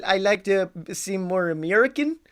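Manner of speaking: hammed-up fake American accent; bad American accent. Podcaster shows his American accent, badly faked. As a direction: put on an unconvincing American accent. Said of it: "so I do my American accent".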